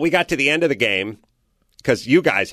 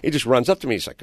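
ordinary delivery

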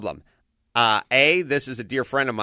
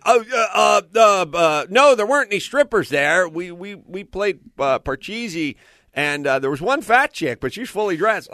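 nervous stammering; 6 semitones higher than usual. Retold or imitated. Husband fumbling excuses to wife.

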